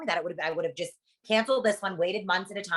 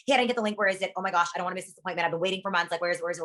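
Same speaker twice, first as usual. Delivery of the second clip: mock frantic caller; much faster than usual. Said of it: "they'll call freaking out".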